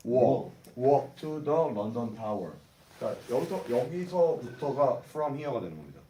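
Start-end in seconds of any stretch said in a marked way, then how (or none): 0.1-2.5 very slow, word by word "walk to the London Tower"; slow model reading. Shown as a demonstration. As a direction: read "walk to the London Tower" slowly for students to copy. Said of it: "시작".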